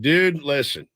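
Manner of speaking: casual dude, lightly imitated; buddy's way of talking. Friend Bauman urging him to watch soccer, in a hint of a bro voice. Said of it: "That's how he talked".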